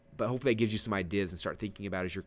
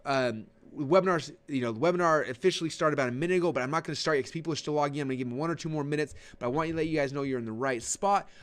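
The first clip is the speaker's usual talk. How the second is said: fast, high host patter while latecomers log in; hyped host stalling; 3 semitones higher than usual. Shown as a demonstration. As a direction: rattle on eagerly to hold the room. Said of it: "I'll be like".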